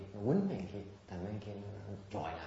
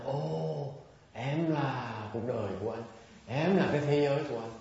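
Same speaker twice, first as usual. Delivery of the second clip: loud, drawn-out declaration of devotion; mock-romantic sweet talk, pitched up and projected; adoring lover; 5 semitones higher, 6 dB louder, slower than usual. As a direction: gush like a man worshipping his woman. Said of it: "thích mấy đàn ông mà là, là tôn sùng".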